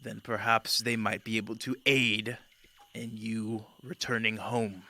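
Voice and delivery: measured, formal, mildly resigned; sighing. Acted. Host offering his guest conditional help, with a mild sigh. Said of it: "And he kind of sighs".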